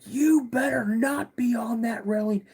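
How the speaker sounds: high, drawn-up scolding dad; stern dad warning. Retold or imitated. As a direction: imitate a dad calling out a warning. Angry dad voiced in story.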